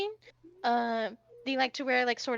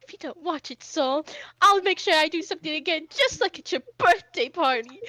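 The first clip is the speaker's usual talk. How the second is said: raised-pitch threat, getting louder; threatening prince; 5 semitones higher, 7 dB louder than usual. Acted. Hoshi warning Soul to watch it, heated threat. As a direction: build from a warning to a loud, high threat. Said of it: "snaps his fan, and he goes".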